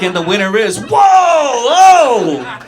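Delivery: high, loud gushing award acceptance; mock award winner. Comic imagining a kids' award win, shrieking with glee. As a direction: squeal like a kid winning a prize. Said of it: "You'd be like".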